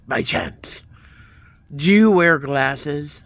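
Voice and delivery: imitating a thick foreign accent on "By chance", slowed down; a retold tech guy with a heavy foreign accent. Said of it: "he had a real thick accent".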